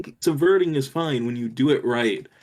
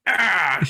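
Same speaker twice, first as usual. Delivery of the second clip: higher imitated "ah" after a drink; 6 semitones higher than usual. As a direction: mimic his drawn-out "ah" for the camera. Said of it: "looking at the camera going".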